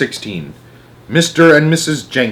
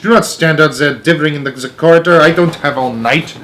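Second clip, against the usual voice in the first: impatient; 5 semitones higher, 5 dB louder than usual. Acted. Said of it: "snapped the Grand High Witch".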